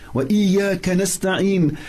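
rapid, flowing recital of the verse; quick Arabic recitation; quick Quran recitation. Acted. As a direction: recite it fast and fluent from memory. Fatiha recitation.

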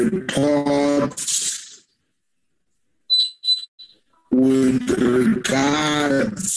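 laggy, dragged-out speech over a bad line; slowed down like a choppy video call; slow motion. Real, not acted. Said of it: "You are talking in slow motion".

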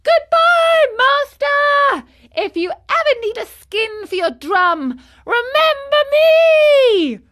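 very high, loud taunting farewell; laughing call. A narrator's reading. Marionette swimming away from his master, gleeful shout. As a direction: call out gleefully, stretching the last words. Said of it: "he cried out, laughing".

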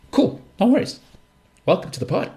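breezy mock welcome. Mock reply to a complaining listener.

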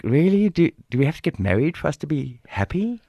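mock-incredulous boyfriend, pitch jumping up. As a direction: balk at the idea in disbelief. Acted reply to marriage demand.

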